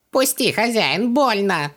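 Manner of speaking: high, slow pained wail. A narrator's reading. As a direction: wail in pain, begging. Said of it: "возопил Хубаксис".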